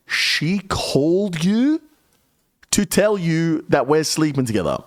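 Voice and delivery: can't believe what she's hearing; incredulous question. Retold or imitated. To the boss about Steve's call, high incredulous question.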